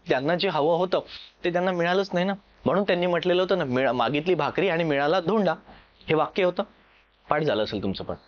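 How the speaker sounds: ordinary talk, nothing marked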